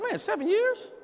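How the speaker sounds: mock amazement. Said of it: "And I said".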